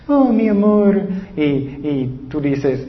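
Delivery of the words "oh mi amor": laughing through a mock "Oh, mi amor", pitched higher and louder; sweet talk that dissolves into laughter. Preacher mocking a fake lover, laughing. Mocking empty words of love.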